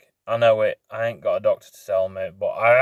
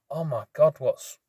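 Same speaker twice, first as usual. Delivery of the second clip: higher, slowed disbelief; replaying his own panic, pitched up; retold panic; 5 semitones higher than usual. Biker recalling his panic when the bike died, pitched up. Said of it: "I'm like".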